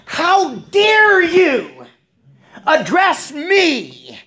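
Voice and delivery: slow, high, loud haughty outrage; indignant. Acted. Mouse queen rebuking the woodsman, hammed-up indignation. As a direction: draw out each word in grand mock offence. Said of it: "That's what indignance is".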